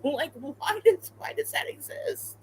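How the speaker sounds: high, unvoiced, laughing question; breathless giggle. Real, not acted. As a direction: gasp it out through giggles. Giggling disbelief at plushie.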